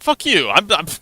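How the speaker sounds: mock furious barman; angry barman. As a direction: bark him out of the bar. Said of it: "the barman's just like".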